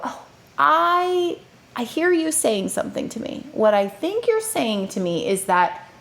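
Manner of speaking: slowed-down, patient parent voice; slow calm talk. Shown as a demonstration. Parent calmly answering a sassy child, slow and patient. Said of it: "notice how slowly I'm talking".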